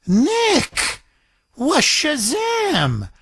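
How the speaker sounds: high, drawn-out put-on gasp of wonder; hammed-up cartoonish astonishment; mock amazement. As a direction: play dumb, wide-eyed and slow. Mock astonished exclamation at coincidence.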